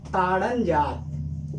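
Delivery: ताड़न जात stretched out very slowly; slow teacher echo of ताड़न जात; slow drawn-out repeat. Shown as a demonstration.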